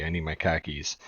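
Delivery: car keys as "khakis"; New England R-dropping. Retold or imitated. Imitating locals on pants or keys, "car keys" as "khakis". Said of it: "you can never tell if someone's talking about pants".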